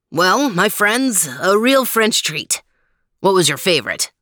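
a hint of the grand French host; lightly voiced suave gourmet, pleased. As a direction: present it to friends with relish. Voices Max addressing his companions.

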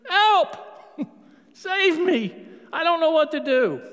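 high, loud cry for help; desperate prayer. Retold or imitated. Preacher voicing his own desperate prayer, crying out high and loud. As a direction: plead like you're drowning. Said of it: "Sometimes my prayer is just".

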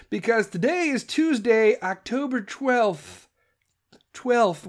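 a hint of a cartoon duck voice; accidental Daffy Duck lisp. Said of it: "Why did I sound like fucking Daffy Duck".

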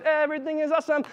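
high, mock-chirpy cheer; hammed-up fake happiness. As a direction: sing it out fake-happy. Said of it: "you sound so happy".

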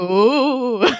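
hammed-up spooky ooh; spooky ghost ooh. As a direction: do a cartoon ghost wail. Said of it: "They're not going".

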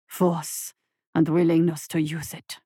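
low looming creature; rumbling monster. A narrator's reading. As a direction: rumble it with menace. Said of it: "Zhenbu rumbled".

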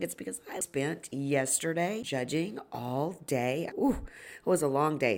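hoarse, gravelly voice after a long day; tired gravelly voice. Real, not acted. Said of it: "so I have a pretty gravelly voice".

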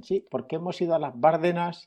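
mock outsider saying Bárdenas with the stress on Bár; a light take-off of a tourist's wrong stress; Bárdenas with the stress on Bár, teasing outsiders; mimicking outsiders. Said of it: "se les nota porque dicen".

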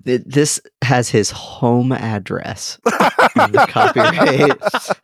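laughing. Real, not acted. Laughs reading out home address.

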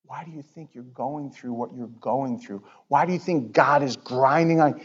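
soft, low plea; gentle, not mad. Acted. Pastor telling his flock they are missing out, gently. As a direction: drop to a hushed, concerned appeal. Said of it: "I'm not mad at you".

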